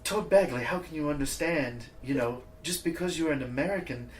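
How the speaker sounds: lightly voiced Swedish girlfriend; a hint of Swedish, mild scolding; Swedish accent. Guest imitating a Swedish ex telling them off, light Swedish accent. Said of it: "I can't really do a good Swedish accent".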